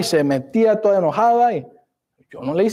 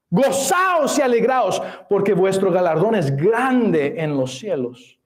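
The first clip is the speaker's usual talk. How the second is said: joyful proclamation. Acted. Preacher reads joyful Beatitude.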